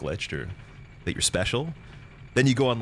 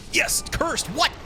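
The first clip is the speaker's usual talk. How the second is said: excited squeal; slower than usual. Real, not acted. Cursed in game, reacting.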